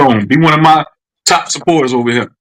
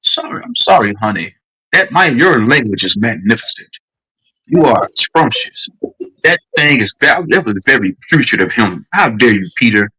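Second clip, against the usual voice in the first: lower, proper speech, like a stuffy professor; posh professor voice; 6 semitones lower than usual. Pretend. Showing the guest how to talk, in a posh professor voice. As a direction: clean up his language with a mock refined tone. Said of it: "That sound like Peter now?".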